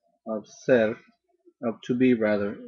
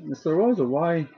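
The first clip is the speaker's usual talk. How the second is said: lightly voiced puzzled student, raised pitch; a hint of a protesting schoolgirl, higher; questioning student; 4 semitones higher than usual. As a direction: imitate a pupil objecting to the teacher. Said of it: "one of them raised their hand and said".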